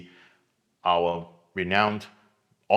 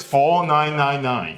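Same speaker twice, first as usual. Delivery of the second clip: slow dramatic reveal; 6 semitones higher, 7 dB louder, slower than usual. Real, not acted.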